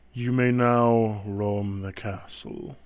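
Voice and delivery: slow, hollow voice from inside a helmet; echoing voice inside helmet. Acted. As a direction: speak as if echoing in a steel helm. Death Knight voice, echoing helmet.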